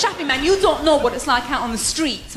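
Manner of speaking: mock-tough London street girl; streetwise little sister. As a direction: play the hard kid from the streets. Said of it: "she goes".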